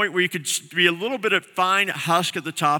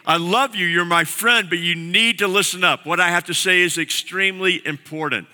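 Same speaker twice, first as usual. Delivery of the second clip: earnest loving plea. Retold or imitated. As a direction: plead with a close friend to listen. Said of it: "he's looking at them going".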